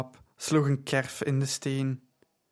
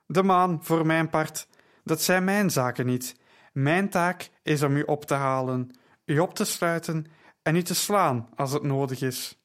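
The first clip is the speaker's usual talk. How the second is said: hoarse soldier. Acted. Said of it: "sprak met een vreemde, schorre stem".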